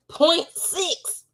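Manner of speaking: high, shocked repeat of "Point six"; stunned disbelief at the number; incredulous. Real, not acted.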